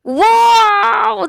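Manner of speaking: high, loud burst of amazement; real excited cry; excited wow. Real, not acted. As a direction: shout out a delighted wow. Amazed by viewer going to Australia.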